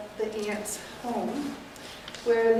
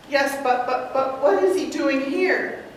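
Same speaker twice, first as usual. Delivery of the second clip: stammering, louder, slow; flustered; 5 dB louder than usual. Acted. Mortimer demands why the body is there, stammering. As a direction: sputter in alarm. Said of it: "playing the nephew, Mortimer".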